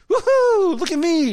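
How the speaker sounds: hammed-up victory shout; mock triumphant whoop. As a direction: crow like a show-off. The speaker mock-boasting over success.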